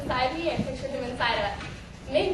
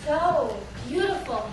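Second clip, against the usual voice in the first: slow, breathy lover's praise; breathy awe; slower than usual. Acted. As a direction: breathe it out slowly, entranced. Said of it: "breathy and his face changed".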